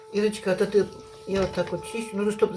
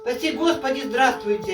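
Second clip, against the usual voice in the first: louder, clearer greeting; speaking up for the camera; louder on request; 5 semitones higher than usual. Real, not acted. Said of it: "Говори громче".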